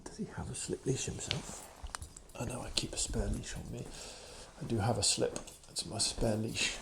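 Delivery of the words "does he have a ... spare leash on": whispered question off to the side. Real, not acted. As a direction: keep it hushed so the dog stays calm. Quiet aside near dog.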